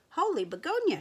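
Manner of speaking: high, loud burst of surprise; startled exclamation. Acted. Sheep bumping into a stranger, startled cry. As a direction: gasp it out, caught off guard.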